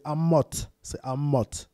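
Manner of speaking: Amote with the ending clearly released; biblical pronunciation. Shown as a demonstration. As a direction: demonstrate Amote as the biblical name. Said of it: "même la prononciation biblique". (Amote, prononciation biblique, finale bien sonore)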